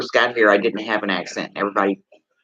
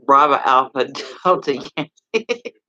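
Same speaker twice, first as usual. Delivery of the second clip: slow and careful, each code word apart; a laugh slipping in mid-spelling; slow spelled-out call sign; 3 semitones higher, slower than usual. Shown as a demonstration. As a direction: spell it out slowly, one code word at a time. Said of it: "That's how you say it".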